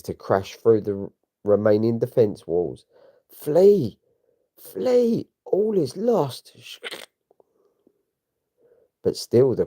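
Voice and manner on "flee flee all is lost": high, frantic scream of retreat; panicked cry to flee. Acted. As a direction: shout it as the city falls. Defenders panicking as walls fall.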